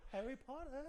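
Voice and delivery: high little elf squeak; Dobby voice. Pretend. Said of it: "should've just came up and been".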